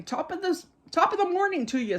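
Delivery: high, quick stage-Irish greeting; Irish accent. Retold or imitated. Medium imitating an Irish spirit greeting the sitter, hammed-up Irish accent. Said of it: "kind of accent".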